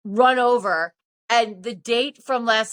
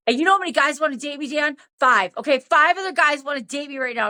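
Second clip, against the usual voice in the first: rapid, higher-pitched mock boast; going off; 4 semitones higher, faster than usual. Tipsy woman challenging Dan about other suitors, indignant. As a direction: rattle it off indignantly. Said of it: "I went off on him".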